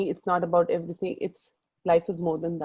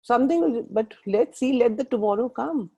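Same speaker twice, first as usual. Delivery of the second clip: reassuring son; 5 semitones higher than usual. Retold or imitated. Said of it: "I said".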